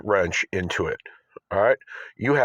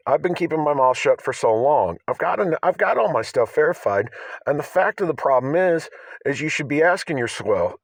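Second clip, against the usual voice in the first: heated, higher and pointed; the other side; 5 semitones higher than usual. Real, not acted. Vlogger showing viewers his other side, heated. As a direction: drop the nice business voice and push hard. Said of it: "See, I have two different sides".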